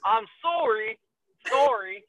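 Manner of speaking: put-on Canadian accent, drawn-out sorry; lightly imitated Canadian accent. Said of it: "gotta get that Canadian accent".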